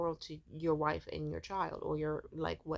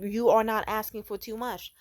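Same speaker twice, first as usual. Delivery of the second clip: impassioned plea; 2 semitones higher, 6 dB louder than usual. Retold or imitated. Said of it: "I wanted to just be like".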